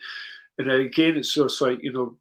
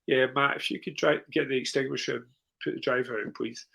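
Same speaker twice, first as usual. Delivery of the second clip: unhurried, politely asking, fading very soft on please; lightly voiced calm team boss, no panic; calm request; 5 dB quieter than usual. Boss telling Matt to put out the burning driver, mild calm politeness. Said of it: "like, as calm as that".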